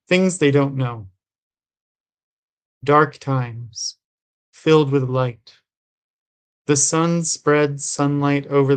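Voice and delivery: measured recital in short, separate phrases; understated poetry-reading cadence; poem reading. A narrator's reading. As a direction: read the poem evenly, line by line. Reads a poem aloud.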